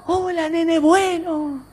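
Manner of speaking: high, soft, slow echo. Acted. Mountain returns the boy's kind greeting, echoing. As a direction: repeat it faintly like a distant echo.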